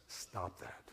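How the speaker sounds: near-whispered stop that, breathy and soft; hushed command. Retold or imitated. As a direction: say it under your breath like a firm rebuke. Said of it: "And the scripture says".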